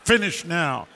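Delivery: firm retold telling-off. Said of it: "I said, I said".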